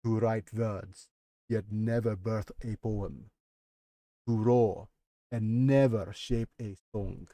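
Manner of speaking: a lightly voiced elder, slow and solemn; old record keeper. Old Glacian record keeper speaks.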